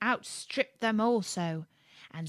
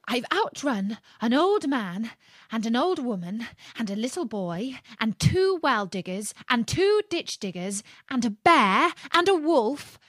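rising, louder cocky brag; boastful gingerbread man; 5 semitones higher, 4 dB louder than usual. Acted. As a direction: brag with growing glee.

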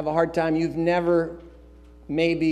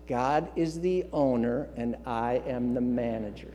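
softer, slower, deliberate; slow, soft recited creed; slow settled reminder; 4 semitones lower, 6 dB quieter than usual. Shown as a demonstration. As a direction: say it calmly to settle the worry. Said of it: "Let's say that out loud together".

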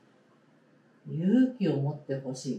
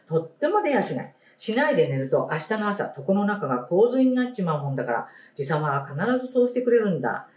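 story reading. Acted. Teacher reading a picture book to the class, storybook voice. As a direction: clear storybook read-aloud voice.

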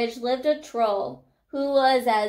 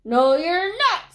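loud, slow, raised troll voice; menacing troll; 6 semitones higher, 4 dB louder than usual. A narrator's reading. Troll refusing to let the goat pass, loud. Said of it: "said the troll".

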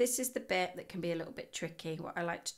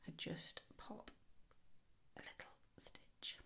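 whisper; 14 dB quieter than usual. Real, not acted. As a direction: drop to a whisper as you concentrate. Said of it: "I don't know why I'm whispering".

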